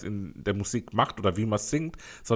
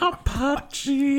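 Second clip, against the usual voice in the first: laughing. Real, not acted. Laughing echo of band name.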